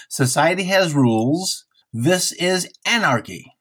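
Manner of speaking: high-pitched, half-hearted movie-quote yell; mock scream. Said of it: "and he screams".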